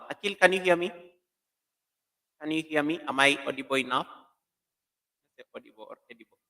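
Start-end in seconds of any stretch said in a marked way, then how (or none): none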